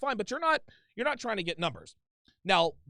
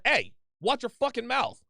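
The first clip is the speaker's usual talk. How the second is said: put-on sharp, loud, higher warning to a girlfriend; raised voice; 5 semitones higher, 5 dB louder than usual. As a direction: raise your voice and put her in her place. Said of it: "Like, raise your voice".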